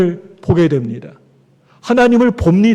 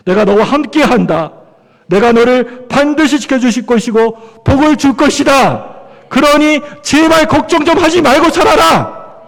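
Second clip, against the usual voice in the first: emphatic divine promise building to a high plea; God urging Jacob; 4 semitones higher than usual. Acted. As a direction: start firm, climb into insistent, exasperated pleading. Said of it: "하나님이 야곱에게 이렇게 말씀하세요".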